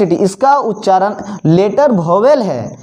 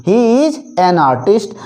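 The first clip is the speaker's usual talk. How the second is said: very slow, every word separate; slow, clear model sentence; slow dictation; much slower than usual. Shown as a demonstration. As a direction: say it for students to write down. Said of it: "इसीलिए हम इसके पहले एन का प्रयोग किए".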